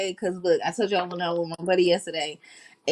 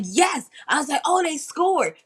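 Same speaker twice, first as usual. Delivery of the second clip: retold excitement; 6 semitones higher than usual. Retelling the overtime win she understood, excited. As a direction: relive the thrill with raised pitch. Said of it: "all excited 'cause I knew that".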